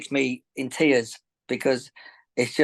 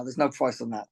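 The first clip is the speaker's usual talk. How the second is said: getting emotional; 3 semitones lower, 4 dB quieter than usual. Real, not acted. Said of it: "I'm getting emotional now".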